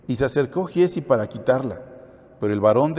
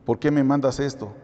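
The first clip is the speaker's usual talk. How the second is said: half-hearted imitation of a wailing complaint; mildly hammed-up crying protest, no real sobs; mock tearful lament; 2 semitones higher than usual. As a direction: act out pleading with God, a touch whiny. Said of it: "Llorando, gritando".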